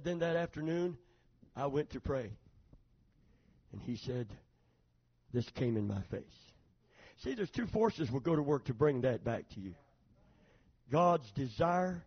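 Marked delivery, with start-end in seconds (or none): 0.0-6.5 hushed. Real, not acted. Hushed retelling of prayer.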